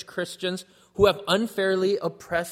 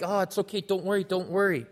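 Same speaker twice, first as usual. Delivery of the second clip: softer, coddling mock comfort; babying; 3 dB quieter than usual. Imagined James babying the poor, a touch coddling. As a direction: pat them on the head with the words. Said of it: "like, baby them".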